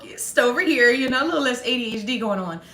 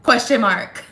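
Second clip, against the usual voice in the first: sarcastic; 5 dB louder than usual. Retold or imitated. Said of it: "mine would be something like".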